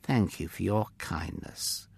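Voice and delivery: low, soft, grateful thanks. A narrator's reading. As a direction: give understated, heartfelt thanks. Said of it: "Silas said gratefully".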